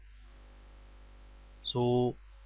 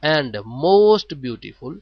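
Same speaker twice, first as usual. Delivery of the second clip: slow dictation; much slower than usual. Shown as a demonstration. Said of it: "slow teacher read".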